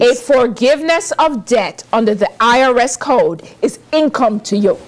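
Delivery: careful unhurried voice; slow, careful delivery. Shown as a demonstration. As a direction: spell it out slowly, word by word. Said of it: "let me say this slowly".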